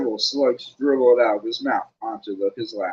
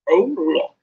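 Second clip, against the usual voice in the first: a sneering, louder "Oh, look"; mocking Flint; 5 semitones higher, 5 dB louder than usual. Flint jeers at Ron and Hermione, sneering. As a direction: jeer at the arriving kids. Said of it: "said Flint".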